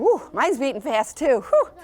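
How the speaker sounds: puffing after running; breathless after jogging; out of breath. Real, not acted. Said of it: "a little out of breath".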